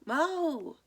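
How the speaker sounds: high, loud calling out; shouting name. A narrator's reading. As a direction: call across the field. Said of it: "Coach Marie shouts".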